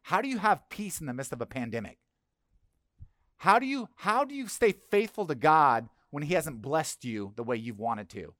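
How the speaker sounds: an outsider marvelling at the church; amazed question. Retold or imitated. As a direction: ask it like someone who can't believe it. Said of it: "people say".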